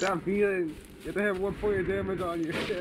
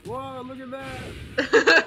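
excited gasp; 5 semitones higher, 7 dB louder, much slower than usual. Retold or imitated. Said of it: "It's like".

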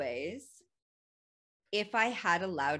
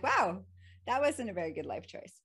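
laughing; 2 semitones higher than usual. Retold or imitated. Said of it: "I start laughing".

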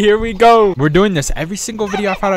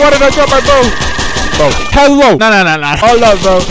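loud, raised frustrated complaint; real gamer frustration, higher and louder; frustrated outburst; 3 semitones higher, 6 dB louder than usual. Real, not acted. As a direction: yell it in exasperation. Lost his bow mid-game.

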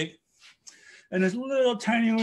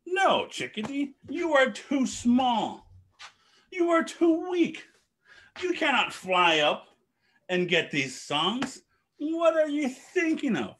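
mocking dismissal; 5 semitones higher than usual. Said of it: "and they says".

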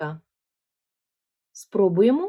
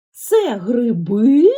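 ГРИБИ asked loudly, last syllable БИ stretched and rising; puzzled echo question; 3 semitones higher, 9 dB louder, much slower than usual. Shown as a demonstration. Teacher models asking again as if not understood, stretched questioning ГРИБИ. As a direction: ask back in disbelief, dragging out the end of ГРИБИ. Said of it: "Перепитай, наче ти не зрозумів".

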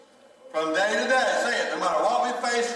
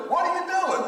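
mock whine; 11 semitones higher than usual. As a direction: stretch it out like a sulking kid. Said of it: "They go".

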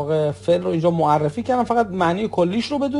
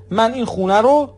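rising, hanging on رو, left open; unfinished sentence; 4 semitones higher, 4 dB louder than usual. Shown as a demonstration. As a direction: stop mid-sentence on a rising رو.

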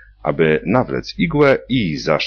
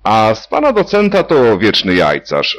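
higher, louder giggly teasing; laughing; 8 semitones higher, 6 dB louder than usual. A narrator's reading. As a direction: laugh it out at him, smitten. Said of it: "zaśmiała się Frania".

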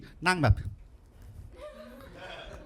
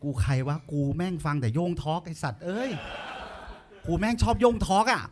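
panicked inner voice; 6 dB quieter than usual. Retold or imitated. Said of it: "ผมว่า".

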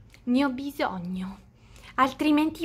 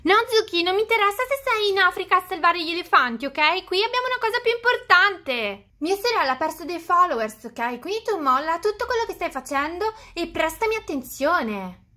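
angry; 3 semitones higher than usual. Acted. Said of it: "Ma è arrabbiata seriamente?".

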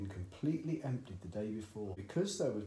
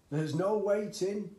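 high, loud, slow impatient cry; excited cry; 9 semitones higher, 8 dB louder, slower than usual. A narrator's reading. Father brushing off his son's doubts, loud and high. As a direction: cut him off, too eager to wait. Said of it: "cried Mister Cranky".

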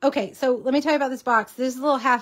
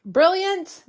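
loud, higher burst of delight; delighted approval; 6 semitones higher, 5 dB louder than usual. Retold or imitated. Mom answering her daughter at dinner with excited approval. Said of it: "And I was like".

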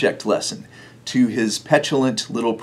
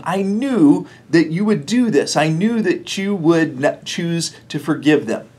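angry Jonah; 4 semitones higher than usual. Retold or imitated. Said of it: "Jonah is angry about those things".

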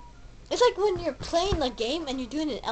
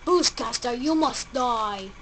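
mock villain threat; slower than usual. Threatening a boss ghost.

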